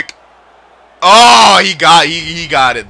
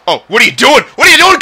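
surprised; 9 semitones higher, 7 dB louder, faster than usual. Real, not acted. Goalie comes out at him.

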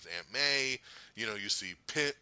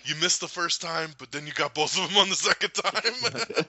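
loud, laughing through the line; laughing quote; 7 semitones higher, 10 dB louder than usual. Retold or imitated. Fan quoting a movie line, laughing loud. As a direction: crack up while quoting. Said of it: "He's like".

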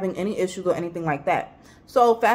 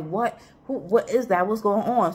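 groggy, just woken voice; half asleep. Retold or imitated. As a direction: mumble it like you just woke up. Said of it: "I'm half asleep".

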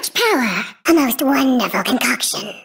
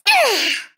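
impatient sigh; 7 semitones higher than usual. Acted. Villain tired of waiting.

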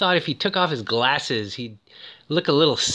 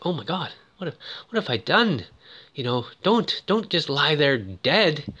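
about to cry; 2 semitones higher than usual. Retold or imitated. Remorseful boy pleads with the girl he killed, mildly tearful. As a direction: imitate a remorseful killer near tears, lightly. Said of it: "he's about to cry".

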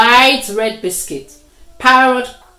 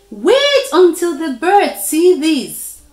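eager; 7 semitones higher, 5 dB louder than usual. A narrator's reading. Spider excited about flying.

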